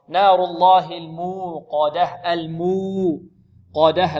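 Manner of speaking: slow, drawn-out "الموقدة" with a heavy ق and light د; careful recitation. Shown as a demonstration. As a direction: stretch the long u of "الموقدة" deliberately. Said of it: "القاف ماذا؟". (ترتيل متأنٍّ بتفخيم القاف في "الموقدة")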